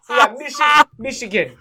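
loud, high; excited cheer. Real, not acted. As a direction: keep the fan cheer going. Cheering his team's win.

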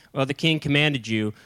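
casual, understated relaying of an order. Acted. First captains relaying the king's order, unforceful. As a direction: pass the order on without any weight. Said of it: "those first guys were like".

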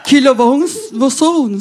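high, loud stunned stammering; baffled stammer. Retold or imitated. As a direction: stumble like the thug lost for words. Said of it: "Och han bara".

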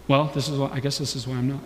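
low, softly voiced resignation; imagined sceptic. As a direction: quietly concede the point, as a non-Christian might. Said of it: "you could be like".

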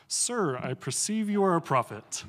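sarcastic woman at the well, half laughing; cynical. Acted. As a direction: read it dripping with doubt. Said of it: "I like to read that in a really cynical voice".

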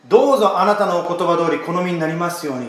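shoulders dropped, letting go of all effort; relaxed surrender. Retold or imitated. Preacher voicing Mary's relaxed, surrendered yes to God. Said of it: "っていう力の抜けてるです".

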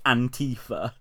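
"Antifa" said as an-TEE-fa; imitated pronunciation. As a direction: stress the middle syllable of "Antifa". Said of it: "that's how he says it".

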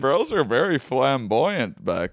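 high, slow booming wizard; game show announcer. Acted. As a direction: boom it like a prize announcer. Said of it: "You sound like a game show announcer".

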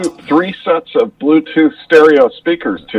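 muffled, hollow tube sound; through a tube. Real, not acted. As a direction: voice coming down a tube. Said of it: "talking through a tube".

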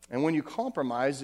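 usual speaking voice

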